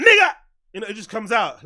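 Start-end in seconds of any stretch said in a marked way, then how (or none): 0.0-0.3 high, loud sudden yelp; sudden outburst. Shown as a demonstration. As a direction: blurt it out like a reflex. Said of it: "I'm like".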